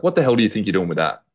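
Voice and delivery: half-scream it as an indignant retort; mock scream. Son to dad with the golf cart, mock scream. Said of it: "and I screamed at him".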